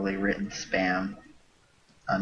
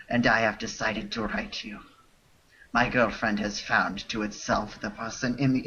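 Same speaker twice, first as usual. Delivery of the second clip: lightly put-on French accent reading broken English; a hint of a fake French accent, half laughing; bad French accent. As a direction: read the spam in a mock French accent, breaking into laughs. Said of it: "read this spam in a bad French accent".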